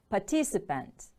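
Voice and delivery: "Participant" with the stress on TIC; second-syllable stress. Shown as a demonstration. Teacher models the word for pupils, "Participant" stressed on TIC. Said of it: "Stress is on the second syllable".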